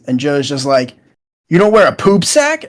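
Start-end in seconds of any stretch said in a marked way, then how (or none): 1.5-2.6 higher-pitched incredulous question, lightly acted; mock disbelief. Joe questioning his friends about poop sacks, mock incredulous. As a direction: imitate someone taken aback.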